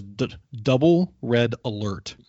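captain's alert. Retold or imitated. Quoting the captain's alert announcement.

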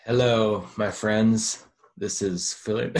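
loud mock announcer greeting; hammed-up host hailing listeners; mock radio host. Mock radio voice, taking a turn.

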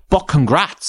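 "But congrats" mimed with a rising, snide lilt; mocking snide quote. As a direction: sneer the "But congrats" back at him. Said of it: "And then to say".

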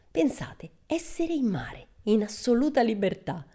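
Pippi dreaming aloud. Acted. Pippi's voice, dreamy about the sea.

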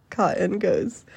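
ordinary delivery

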